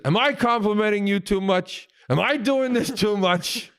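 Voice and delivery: a hint of an effusive actor; Al Pacino. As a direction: ask it high, stretching the end. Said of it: "he said to me, he goes".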